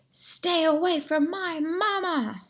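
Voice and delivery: high, loud gosling cry; protective shout. A narrator's reading. Gosling swoops in to defend Roz: shrill high shout. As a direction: yell to guard your mother.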